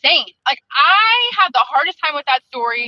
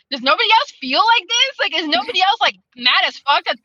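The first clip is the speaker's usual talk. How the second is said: raised pitch, incredulous questioning; indignant appeal; 4 semitones higher than usual. Retold or imitated. Reader asking if others feel the same, indignant. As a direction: plead for someone to share the outrage.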